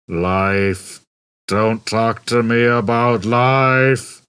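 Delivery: slow, weary gloomy drone; depressed robot. Acted. Marvin moaning to Ford and Arthur, weary drone. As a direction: sigh it out like nothing matters.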